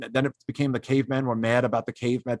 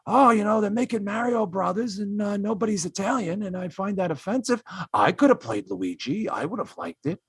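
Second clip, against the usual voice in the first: mock Al Pacino; 4 semitones higher than usual. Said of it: "if Al Pacino just said".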